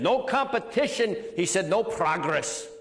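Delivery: a hint of a rolling Romanian accent on "No competition"; lightly imitating a Romanian coach. Speaker quoting the gymnastics coach, in a light Romanian accent. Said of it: "in his rolling Romanian accent said".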